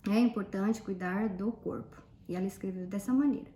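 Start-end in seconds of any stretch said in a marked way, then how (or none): 0.1-2.0 dictation. Retold or imitated. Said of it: "a frase que eu ditei pra ela".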